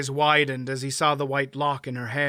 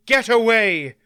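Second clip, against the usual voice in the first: louder, higher alarmed call; shouted; 7 semitones higher, 8 dB louder than usual. A narrator's reading. Aunt Pole shouts a warning to the smith. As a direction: cry out his name in warning. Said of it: "Aunt Pole shouted".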